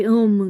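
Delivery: "अम" with no h sound at the start; silent H. Shown as a demonstration. Teacher showing how homme is pronounced, "अम" with silent H. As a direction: say "अम" starting straight on the vowel. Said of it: "ये अम करके pronounce होता है".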